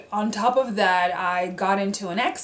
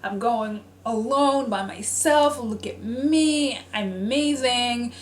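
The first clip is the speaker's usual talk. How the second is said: mock boastful excitement; 4 semitones higher than usual. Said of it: "I was like".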